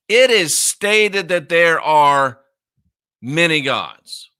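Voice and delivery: "It is stated" slow and weighty, pause before "many gods"; slow emphatic declaration. Real, not acted. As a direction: spell it out slowly, halting before "many gods". Hammering home his translation.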